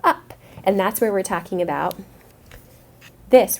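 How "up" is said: "up" said with a questioning lift; rising pitch. Shown as a demonstration. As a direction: let "up" climb as you say it. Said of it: "your voice goes".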